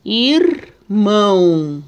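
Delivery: "Irmão" stretched very slowly, mouth half open on the "ão"; drawn-out demo word. Shown as a demonstration. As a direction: slowly model "Irmão" so they hear the nasal end. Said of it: "a gente fica com a boquinha meio aberta".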